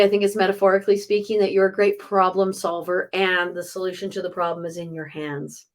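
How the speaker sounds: ordinary talk, nothing marked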